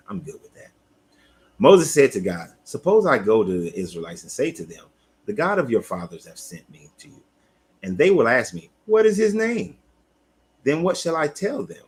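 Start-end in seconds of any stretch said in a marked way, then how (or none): 1.6-11.8 emphatic Bible reading, questions lifted high; scripture reading. Acted. Moses questioning God about his name, read as animated scripture.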